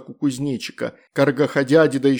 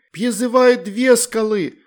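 higher, louder stubborn call; 9 semitones higher, 5 dB louder, slower than usual. A narrator's reading. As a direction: insist on it, defiant. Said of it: "упрямо сказала Вероника".

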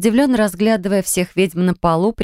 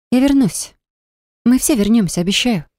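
emphatic promise; 5 semitones higher than usual. Acted. Reassuring friends, raised.

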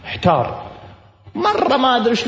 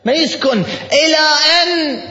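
voice breaking; 7 semitones higher than usual. Real, not acted. Preacher moved, voice breaking.

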